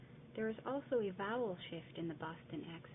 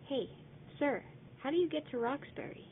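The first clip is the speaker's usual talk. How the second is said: polite tourist; 6 semitones higher, 6 dB louder than usual. Acted. Tourist asking directions.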